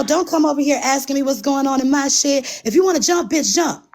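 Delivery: high-pitched angry quote; mock angry rant. Retelling her angry outburst.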